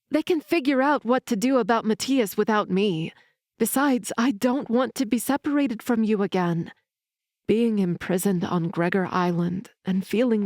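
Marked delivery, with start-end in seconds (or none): 0.1-6.7 arguing. Acted. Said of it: "I argued".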